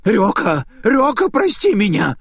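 high, loud plea for forgiveness; desperate begging. Acted. Cowering Naita begs Ryoka for forgiveness. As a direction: beg for your life.

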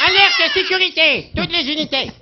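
computer alarm voice. Retold or imitated. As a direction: wail the alert like a panicked computer. Imitating film computer alarm. (alarme d'ordinateur aiguë et traînée)

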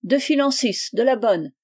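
loud, high call across the café. A narrator's reading. Bishop shouting his order to the barkeeper Chicot, loud and high. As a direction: hail the barkeeper from your seat. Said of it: "et l'évêque cria".

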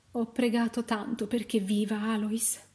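thin, grieving mother's voice; understated anguish; tearful pleading. A narrator's reading. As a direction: plead through sorrow. Weeping mother pleads for baby.

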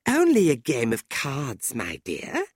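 lightly innocent, starting high; feigned innocence. A narrator's reading. Tilda pretending not to understand Fanny's jealousy, innocent. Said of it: "pretending not to understand".

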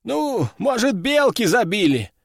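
pondering officer in a lifted voice; musing. A narrator's reading. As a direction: speculate aloud, unsure. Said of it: "задумался майор".

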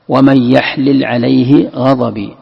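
an i between the two lāms of "يحلل"; kasra reading. Shown as a demonstration. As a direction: slowly recite "يحلل" as yaḥlil. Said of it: "قراءة الكسر". ("يحلل" بكسر اللام)

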